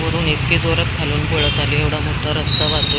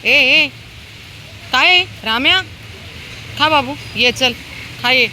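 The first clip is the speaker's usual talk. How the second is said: loud, high-pitched hails; shouting at dogs; 10 semitones higher, 3 dB louder than usual. Real, not acted. Feeder checking squabbling dogs and calling one to eat, shouting. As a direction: break up a fuss, then call the dog to eat.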